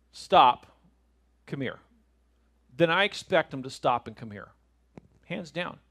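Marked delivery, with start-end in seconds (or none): 0.1-0.7 one loud, firm word; parental command. Retold or imitated. Father halting his kids, firm command. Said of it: "and I say". 1.5-1.8 softer, lower follow-up; quietly expect to be obeyed; calm parental order. Retold or imitated. Father summoning his kids, calm order. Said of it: "and I say".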